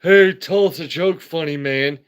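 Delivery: mock heckler shouting from the crowd. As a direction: call out like a rowdy fan. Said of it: "someone's like".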